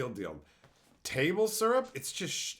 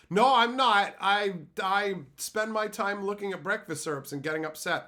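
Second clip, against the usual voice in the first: mock loser reply; 7 semitones higher, 5 dB louder than usual. Mocks an internet loser's reply.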